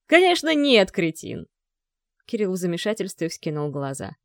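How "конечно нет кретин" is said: a loud, high, harsh put-down. A narrator's reading. Father turns on his son with a harsh refusal. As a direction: drop the kindness and snap. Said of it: "добавил жёстко".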